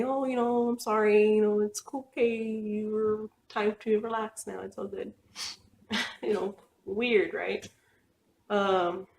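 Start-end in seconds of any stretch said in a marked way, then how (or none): 0.0-5.1 soothing dolls. Retold or imitated. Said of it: "I put them up and I say".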